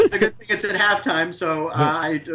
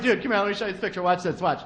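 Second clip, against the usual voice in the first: pushy friend; 3 dB quieter, faster than usual. Retold or imitated. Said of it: "They're like".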